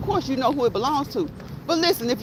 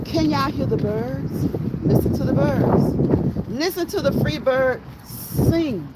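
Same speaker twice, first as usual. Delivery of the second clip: slow, drawn-out invitation; slower than usual. Real, not acted. Invites viewers to hear birds.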